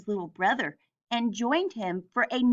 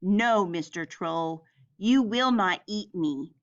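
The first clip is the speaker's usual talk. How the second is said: fearless big goat; 3 semitones lower than usual. Acted. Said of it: "was not afraid".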